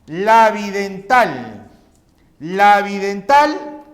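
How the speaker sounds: Labidental drawn out slowly and loudly, twice; slow, loud teacher dictation. Shown as a demonstration. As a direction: spell out Labidental slowly for the pupils. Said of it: "labi de labio".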